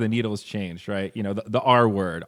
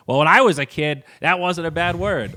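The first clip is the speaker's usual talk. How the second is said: put-on old-timer grumbling; 6 semitones higher, 5 dB louder than usual. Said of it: "hanging on to the old times just because".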